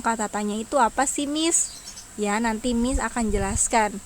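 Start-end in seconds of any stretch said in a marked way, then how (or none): 0.0-1.8 student's question. Retold or imitated. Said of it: "Pasti kalian masih bingung".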